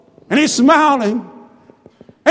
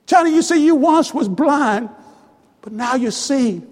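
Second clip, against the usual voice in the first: gentle reassurance. Acted. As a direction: reassure him, letting the last words drop. First, gentler take of father's words.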